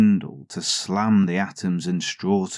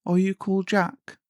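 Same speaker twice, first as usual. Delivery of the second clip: high, teasing guess; queen teasing; 12 semitones higher than usual. A narrator's reading. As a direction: lightly toy with him.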